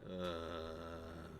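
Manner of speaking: low, slow undead groan; zombie voice. Acted. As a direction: moan it like a rotting corpse. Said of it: "drop the zombie voice now".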